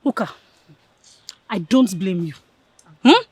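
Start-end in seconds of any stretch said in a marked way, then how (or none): 1.5-2.3 low-pitched, restrained reproach; measured, disdainful dismissal; contained scorn. Acted. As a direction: hold the scorn in before the blow-up. Starts scolding her friend, still contained.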